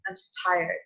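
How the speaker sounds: tired, giving up. Retold or imitated. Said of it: "'cause I was just like".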